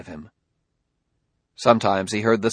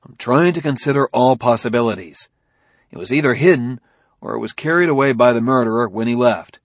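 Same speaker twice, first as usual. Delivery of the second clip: politely impatient; 5 dB louder, faster than usual. Acted. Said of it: "Bailey said impatiently".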